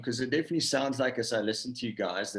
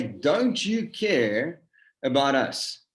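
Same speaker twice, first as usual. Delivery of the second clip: accusing demand; 3 semitones higher, 4 dB louder, slower than usual. Retold or imitated. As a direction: fire it as a statement, not a question. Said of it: "that doesn't sound like a question mark to me".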